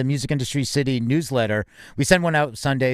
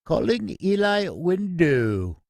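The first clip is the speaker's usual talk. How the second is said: slow, drawn-out Australian voice assistant; mock Australian Siri voice, slow and deliberate; Siri's Australian accent; 4 semitones higher, much slower than usual. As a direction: imitate Siri's Australian accent, stretching the name. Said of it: "an Australian accent".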